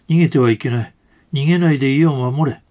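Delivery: half-voiced shouting of a command to stay and guard the house; retold shout. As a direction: relay the block leader's order with some force. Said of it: "と叫んでおりました".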